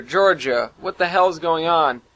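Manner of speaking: alarmed shout; calling out. Acted. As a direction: demand answers from across the room. Calling for help from sickbay cot.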